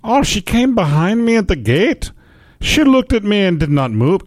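poor Irish-Scottish brogue; bad Irish accent. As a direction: attempt an Irish accent and miss. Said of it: "how to do an Irish accent".

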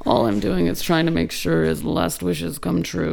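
lightly attempted star voice; Johnny Depp. Shown as a demonstration. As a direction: try a hint of the actor's mumble. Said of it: "do a Johnny Depp accent".

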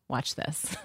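voiced as a private thought, low and soft; quiet inner thought. Host imagining the underestimated woman's thought, hushed aside. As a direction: drop it down low, like thinking to yourself. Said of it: "walk out of the room and think".

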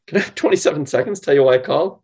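light and friendly with two rising notes; breezy cold-call opener with a chuckle; playful and curious. Shown as a demonstration. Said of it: "Notice the little chuckle, the two ups".

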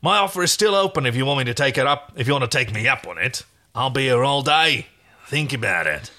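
quick sales pitch easing at the end; bargaining stallkeeper. Acted. Stallkeeper renews the offer to Aaron, bargaining. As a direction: press the offer, then leave it open.

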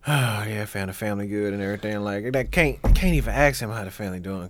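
low, subdued mock small talk; soft, low, uncomfortable imitation; awkward small talk. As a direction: act out an awkward reply under your breath. Acting out an awkward greeting.

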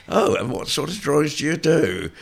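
high, loud mock curiosity; Francis Bacon. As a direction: imitate a menacingly keen enquiry. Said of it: "he says".

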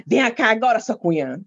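mock stern summons, falling on the last words; bossy mother. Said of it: "A mamãe era assim". (mãe mandona, imitada)

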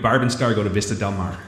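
put-on lightly accented Rs in Barb, Star and Mar; accented R sound. Repeating the comedy pick to a co-host, accented R sound. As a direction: lean on the R accent through the title. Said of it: "say it with the R like that".

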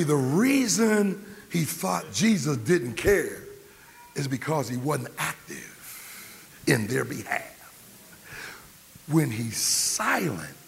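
usual speaking voice

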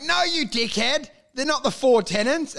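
mock-indignant, putting someone straight; indignant correction. Correcting someone who got philosophy slightly wrong, mock-indignant. Acted argument, correcting a misreader.

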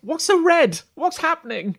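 high-pitched heckler from the back; confused villager. Acted. Villager calls out from the back of the crowd, high confused voice. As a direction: pipe up high and baffled. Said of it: "someone in the back goes".

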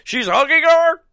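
hammed-up high squawk; mock outraged Cyclops. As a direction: squawk it like a jealous boyfriend. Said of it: "is like".

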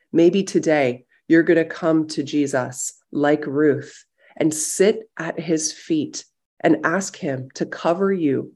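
gentle prayerful guiding voice, unhurried; guided meditation. Acted. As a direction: pastor guiding a silent prayer. Leads a guided visualization.

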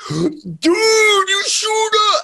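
high, slow stretched-out excited yell; starstruck fan. Retold or imitated. Stranger at the urinal recognizing him, high excited yell. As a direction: gasp it out like a fan who can't believe it.

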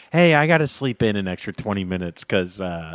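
low, lightly acted groggy caller; low-pitched excuse, trailing into softness; sheepish morning-after excuse. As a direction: imitate a sheepish request to sleep in. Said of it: "the next morning you go".

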